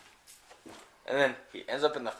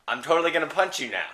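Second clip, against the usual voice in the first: angry; 5 semitones higher than usual. Acted. Guy threatens thief.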